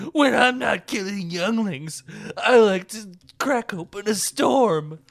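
loud, menacing movie villain; Anakin voice. Acted. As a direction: growl it like a dark lord. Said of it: "Anakin's when, is like".

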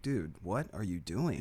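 slow, drawn-out disbelief; mock reproach. Reacting to a botched accent, mock reproach. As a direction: chide a friend, half laughing. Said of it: "you're like".

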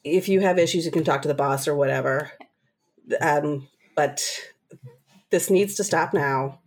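calm, steady. Shown as a demonstration. Worker calmly refusing to escalate with a yelling customer. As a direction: talk her down calmly, no heat. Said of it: "calmly, calmly say".

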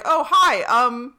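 a hint of awkward politeness, no accent; Jarvis. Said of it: "Jarvis being like".

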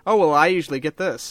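lightly mimicked eager reply; perked-up barista. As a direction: perk up as if pleased to be asked. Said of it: "they just perk right up".

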